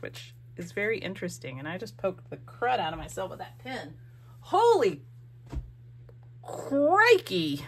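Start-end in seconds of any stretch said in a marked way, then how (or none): 4.4-7.6 high, loud startled yelp. Real, not acted. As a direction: react to the sudden prick. Just pricked herself with pin.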